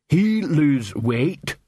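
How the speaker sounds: very slow, puzzled troll voice; a dim troll working it out. Acted.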